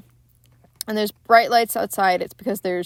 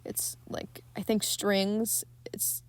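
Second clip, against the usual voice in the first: hushed aside about eerie strings; whispering; 9 dB quieter, slower than usual. Real, not acted. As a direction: drop to a hush. Describing the eerie film music.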